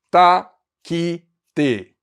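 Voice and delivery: Taquite said slow and deliberate; spelled-out syllable. Shown as a demonstration. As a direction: say Taquite clearly as a model. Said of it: "Essa é a sílaba". (Taquite pronunciado devagar)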